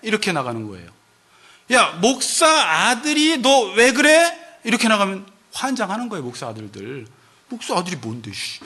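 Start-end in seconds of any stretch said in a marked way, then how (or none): 1.7-4.4 scolding. Retold or imitated. Scolding pastor's son. 7.5-8.6 sulky grumble. Retold or imitated. Pastor's son grumbling back.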